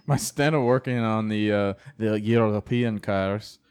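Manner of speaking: light French accent on European cars. Shown as a demonstration. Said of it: "that was my French accent for European cars".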